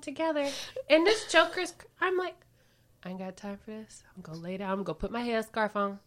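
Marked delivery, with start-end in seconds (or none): 3.0-6.0 unvoiced, quiet muttered brush-off; whispered aside. Wife retelling her tired brush-off, whispered. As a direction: whisper it like you're done for the night.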